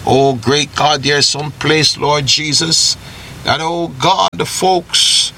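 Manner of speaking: earnest spoken prayer, rising in fervor; fervent radio prayer. Acted. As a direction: pray over the listeners with growing intensity. Radio host leads closing prayer.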